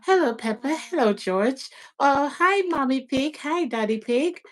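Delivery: a light child voice greeting cartoon pigs; imitating child's scripted talk. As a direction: recite it the way a toddler echoes a TV show. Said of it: "So she's now saying".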